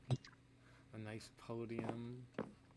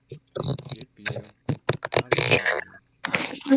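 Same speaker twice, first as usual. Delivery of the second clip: dramatic drawn-out; 19 dB louder, slower than usual. Acted. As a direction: drag out each word in mock outrage. Dramatic drawn-out repeat of complaint.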